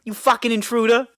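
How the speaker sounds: mock wounded ex-husband; aggrieved ex-husband. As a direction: claim the house back angrily. Acted ex-husband's grievance.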